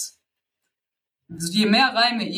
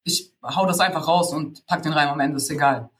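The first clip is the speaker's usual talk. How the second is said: lower, careless don't-care rapper voice; ignorant attitude; 3 semitones lower than usual. Retold or imitated. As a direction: toss it off like you couldn't care less. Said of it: "so eine ignorante Haltung". (lässig-ignorante Haltung, tiefer gesprochen)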